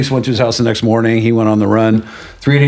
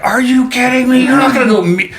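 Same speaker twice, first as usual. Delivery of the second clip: much higher, aghast mother's voice; incredulous mom; 11 semitones higher than usual. Retold or imitated. Mom stopping her sick child going out, incredulous high voice. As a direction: imitate mom objecting in a high-pitched voice. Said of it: "my mom is like".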